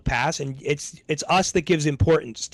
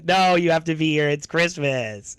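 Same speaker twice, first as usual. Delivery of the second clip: mild imitated pleading. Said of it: "She keeps having, like".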